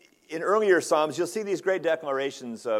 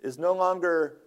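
higher-pitched, earnest cry to God; 5 semitones higher, 3 dB louder than usual. Retold or imitated. Psalmist crying out to God over the lost shepherd, crying out. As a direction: cry out in lament, pitch lifted. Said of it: "he's really crying out".

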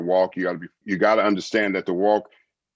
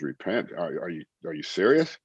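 retold disbelief. Retells his disbelieving reply to God.

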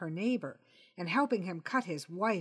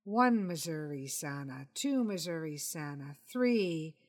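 mild slow counting; 2 semitones lower than usual. Acted. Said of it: "count the seconds silently".

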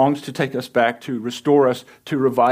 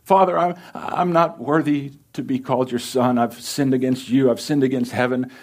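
rehearsed plea; 3 semitones higher than usual. Acted. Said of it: "began his rehearsed speech".

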